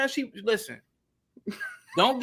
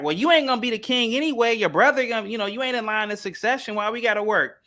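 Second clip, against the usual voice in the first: Meghan Markle; 6 semitones higher than usual. Acted. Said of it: "And Meghan Markle like".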